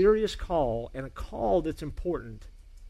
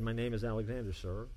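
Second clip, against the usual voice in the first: softer, hesitant soldier's answer; more quietly; 3 semitones lower, 8 dB quieter than usual. A narrator's reading. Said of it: "a little bit more quietly".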